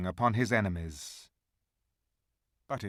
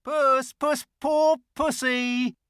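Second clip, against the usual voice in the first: high, loud, mocking creature voice; jeering; 10 dB louder, slower than usual. A narrator's reading. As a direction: taunt him like a cat. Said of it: "jeering at him".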